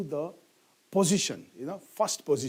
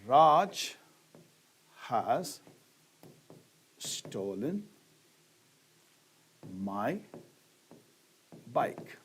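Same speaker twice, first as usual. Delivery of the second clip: slow word by word; 5 semitones lower, 3 dB quieter, much slower than usual. Shown as a demonstration. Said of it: "What is the first word?".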